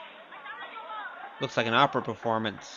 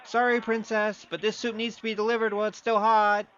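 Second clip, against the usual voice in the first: higher, cheeky insincere sorry; mock apology; 8 semitones higher than usual. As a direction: tease her as you run off. Teasing farewell to the princess.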